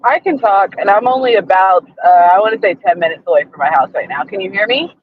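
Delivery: tinny phone line; like talking from inside a tin can; tin can sound. Real, not acted. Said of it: "it sounds like you're in a tin can".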